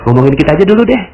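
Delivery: fast, dismissive interruption; impatient listener. Pretend. Listener cutting off Pak Nas, fast and dismissive. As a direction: wave off the talk of Indonesia.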